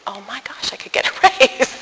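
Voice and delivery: giggling through the last word, rising high; amused, half-tempted inner voice; laughing at the thought. Retold or imitated.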